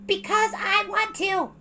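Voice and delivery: put-on high, slow, stubborn child; stubborn little girl. A narrator's reading. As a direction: dig in like a stubborn kid. Mei voiced.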